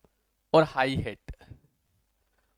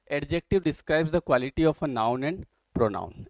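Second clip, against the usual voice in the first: slow dictation; much slower than usual. Acted. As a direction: spell it out slowly so students can write. Dictating a definition.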